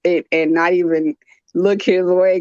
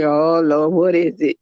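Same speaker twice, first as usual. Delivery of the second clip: weary husband; 3 semitones lower than usual. Retold or imitated. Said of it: "the tone of his voice".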